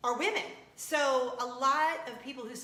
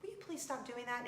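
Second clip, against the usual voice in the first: kind request; 3 semitones higher, 8 dB quieter than usual. Retold or imitated. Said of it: "in a kind way".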